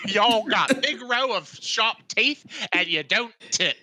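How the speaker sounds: hammed-up, wandering accent impression; lightly voiced butler losing the accent; Michael Caine. Butler lecturing sharks then correcting himself, loose impression. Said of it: "I slipped into Michael Caine".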